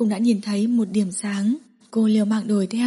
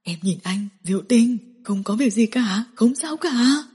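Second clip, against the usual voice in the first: trembling voice. Acted. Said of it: "Giọng nói của anh run run".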